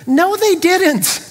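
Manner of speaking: high, drawn-out incredulous denial; emphatic rebuttal. Real, not acted. Preacher rebutting the gullible ancient people fallacy, emphatic. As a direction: swoop up high and stretch out the contradiction.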